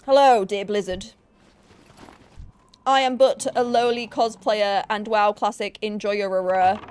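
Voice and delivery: slow, hammed-up charming Yorkshire accent; mock-polite Yorkshire pitch, lightly done. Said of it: "my best, like, charming Yorkshire accent".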